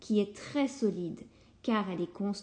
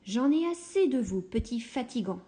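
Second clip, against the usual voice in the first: mild exclamation of a tired mother; fed-up mother; 2 semitones higher than usual. Acted. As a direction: snap at the unruly piglets. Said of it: "s'écrie maman cochon".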